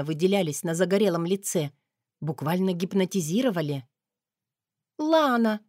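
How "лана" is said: high, loud, tearful insistence; high sobbing young woman; sobbing cry. A narrator's reading. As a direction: cry out her name, near tears. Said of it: "всхлипнула девушка".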